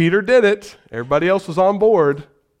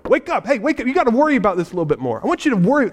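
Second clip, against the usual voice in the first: higher, hurried mock wake-up call; mock nagging God; 5 semitones higher, much faster than usual. Preacher voicing what God doesn't say, mock nagging. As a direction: pester a sleeper awake, half in jest. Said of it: "No, he wants you to".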